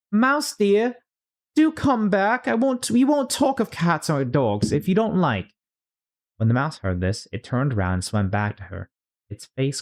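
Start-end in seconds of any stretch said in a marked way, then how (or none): 0.1-5.5 soft coaxing call. Acted. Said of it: "in a soft voice".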